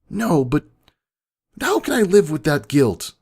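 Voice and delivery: high, pleading cry of guilt; anguished plea. A narrator's reading. Pony asking her double how to live with guilt, anguished. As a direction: beg for an answer, voice pushed up. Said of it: "I asked".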